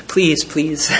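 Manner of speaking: laughing while voicing a pleading beast; mock pleading monster. Preacher mocking Leviathan begging a boy, laughing. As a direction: beg like a giant turned meek, half laughing.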